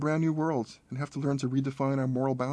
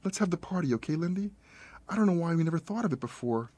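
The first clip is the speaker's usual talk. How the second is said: higher, rushed, unhinged cheer; brightly manic grieving mother; manic excitement; 6 semitones higher than usual. Acted. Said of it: "vocalizing scattershot thoughts".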